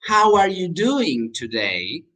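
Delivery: slow question rising at the end; slow model question. Shown as a demonstration. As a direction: draw out "doing" for learners. Slow repeat for learners.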